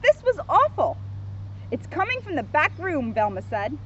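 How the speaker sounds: measured, lively storybook narration; children's story reading. A narrator's reading. Officer reads Scooby book to kids, storybook narration. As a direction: read it out clearly for small listeners.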